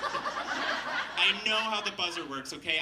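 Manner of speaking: retold sassy retort, leaning on "okay". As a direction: snap back with mock indignation. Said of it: "I was so sassy with this guy".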